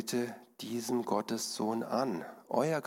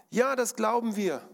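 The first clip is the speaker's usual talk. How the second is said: higher, louder crowd shout; calling out; 11 semitones higher, 4 dB louder than usual. Acted. Crowd calls back to the tightrope artist, loud and high. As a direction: shout your belief from the crowd. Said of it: "riefen die anderen".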